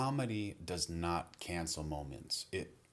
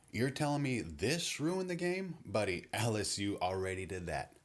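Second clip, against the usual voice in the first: disappointed roast; 3 semitones higher than usual. Retold or imitated. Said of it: "He'd sound disappointed".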